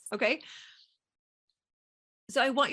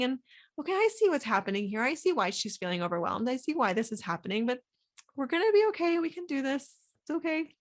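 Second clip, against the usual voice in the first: compassionate self-talk; 2 semitones higher than usual. Retold or imitated. Coach voices comforting inner voice to overwhelmed self, tender. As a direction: comfort yourself like a kind friend. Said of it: "watch it with compassion".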